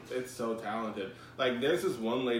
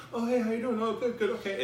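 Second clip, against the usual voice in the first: high-pitched, polite quick hello; mock pleasantries in a raised voice; awkward small-talk greeting; 10 semitones higher than usual. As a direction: put on a chirpy, brush-off greeting. Acting out awkward acquaintance greeting.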